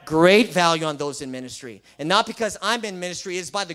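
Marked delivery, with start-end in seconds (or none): 0.1-1.8 emphatic repeat. Real, not acted. Preacher repeats his point to the church, lower and louder. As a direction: lower and louder, pressing each word.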